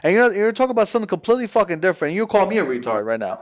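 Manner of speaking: fired up and fed up, words tumbling out fast; irritated rant. Real, not acted. Annoyed friend snapping at Ariel, fast and irritated. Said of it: "I'm fucking getting irritated".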